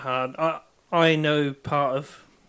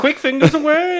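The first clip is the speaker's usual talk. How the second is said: villain catchphrase; 11 semitones higher, 6 dB louder than usual. Pretend. Joking villain catchphrase exit.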